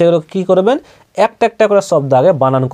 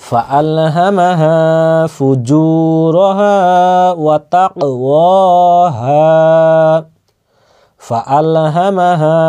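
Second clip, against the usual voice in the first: slow Quran recitation, long vowels sustained; joined-up recitation; much slower than usual. Shown as a demonstration. Teacher joining three words for learners, slow drawn-out recitation. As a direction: chant the whole phrase slowly and evenly. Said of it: "তিনটাকে একসাথে মিলাবো".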